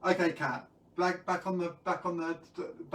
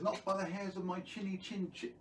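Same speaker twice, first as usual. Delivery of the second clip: lightly voiced pig, higher and softer; small, raised voice for a little pig; little pig refusing; 4 semitones higher, 5 dB quieter than usual. Little pig refusing the wolf at the door, lightly voiced. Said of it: "And the little pig says".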